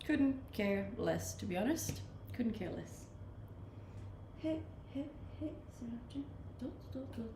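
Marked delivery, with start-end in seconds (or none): none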